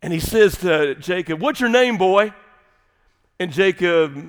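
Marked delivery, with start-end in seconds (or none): 1.4-2.3 put-on Southern accent angel. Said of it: "in this Southern Greek here".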